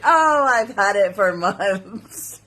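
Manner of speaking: slow, fake-innocent wife; mock innocent. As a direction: play it cool and innocent. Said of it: "You say".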